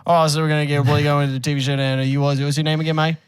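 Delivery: mock Australian show host; Australian accent. Host getting a TV show going, Australian accent. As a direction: put on a chummy Australian accent. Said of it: "we need Australian dudes".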